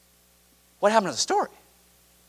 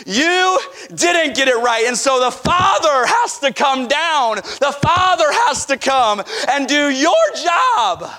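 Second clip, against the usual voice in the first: forceful preaching; 2 semitones higher, slower than usual. Real, not acted. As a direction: drive the point home hard. Preacher hammering rebuke.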